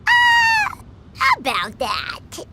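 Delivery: caught off guard. Acted. Caught out, awkward.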